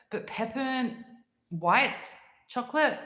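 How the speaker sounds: high, puzzled asking; can't believe it; surprised question. Real, not acted.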